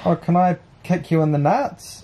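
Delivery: high, laughing mock politeness; mock the weirdo, laughing; mocking stranger. Boyfriend mocks the stranger's polite request, laughing.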